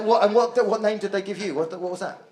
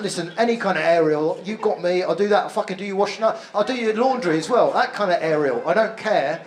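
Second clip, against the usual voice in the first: lightly mocked London geezer patter. Comic teasing an aerial erector, mock geezer. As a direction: imitate an eager geezer reeling off offers. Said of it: "you suddenly become a geezer".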